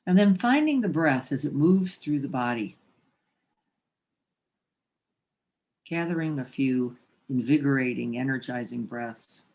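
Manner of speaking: meditation teacher leaving long silences between instructions; spacious, measured meditation cueing; guided meditation. Real, not acted. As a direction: guide them gently to the breath. Guides posture and breath.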